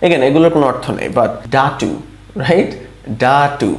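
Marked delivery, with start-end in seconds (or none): 3.2-3.7 DAA-TU, both syllables stretched; sounded-out demo. Shown as a demonstration. Teacher showing learners how the letters join, sounded-out demo. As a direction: draw out ডাটু slowly. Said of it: "এরকম হতো".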